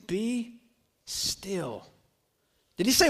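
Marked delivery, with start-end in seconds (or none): 0.1-1.9 very soft, spaced-out command; calm hush. Acted. Jesus calming the storm, soft spacious hush. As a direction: say it gently, letting it fall away low.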